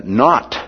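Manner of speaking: "not" set apart with mild emphasis; emphatic NOT. Acted. Preacher quotes Peter's first word, "not", mildly emphatic. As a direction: lightly stress "not". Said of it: "So he's emphatic using that".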